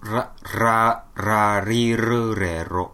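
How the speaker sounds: ラリルレロ tried with a weak, clumsy trill; clumsy rolled r. Shown as a demonstration. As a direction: attempt rolling the r in ラリルレロ, slowly. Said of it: "まあちょっと一回やってみて".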